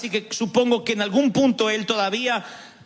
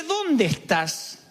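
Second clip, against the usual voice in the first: tender call; 3 semitones higher, much slower than usual. Retold or imitated. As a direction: stretch it gently, inviting them home. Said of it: "Cuando te dice".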